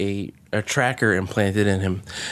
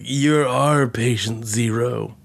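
mock dramatic; slower than usual. Mocks the film's dramatic line.

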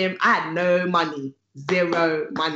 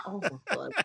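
embarrassed laugh; 3 dB quieter than usual. Retold or imitated. Embarrassed by dad in church.

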